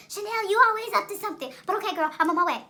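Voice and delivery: put-on high, whiny girlfriend voice; squeaky mock complaint, quickening at the end; imitated best friend. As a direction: pitch it way up as the friend giving in.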